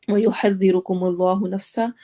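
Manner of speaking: Quranic recitation. Shown as a demonstration.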